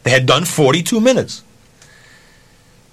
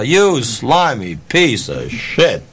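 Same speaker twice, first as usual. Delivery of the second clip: retold insult; much slower than usual. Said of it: "whatever name you can conjure up".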